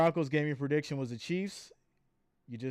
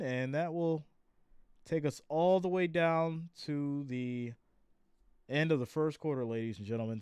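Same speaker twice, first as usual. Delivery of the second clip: play-by-play. Acted. Calls the play live.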